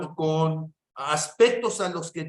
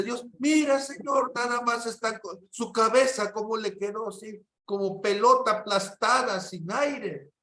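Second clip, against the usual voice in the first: higher-pitched mock tearful plea, not really crying; retold tearful prayer; 5 semitones higher than usual. Micaela praying over the crushed child, retold tearful prayer. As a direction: imitate a distressed woman pleading with God. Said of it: "se soltó llorando y le dice".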